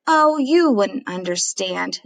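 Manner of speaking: put-on slow, sulky mumble of a fed-up kid. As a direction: sulk it, a put-upon daughter. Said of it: "Sarah says sulkily".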